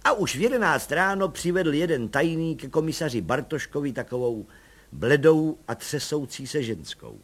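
ordinary delivery, nothing marked

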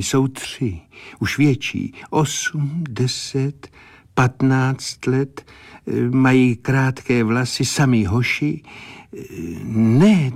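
a hint of a mystic seer's vision; clairvoyant in a trance. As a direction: describe what she sees as if in a trance. Clairvoyant describing her vision.

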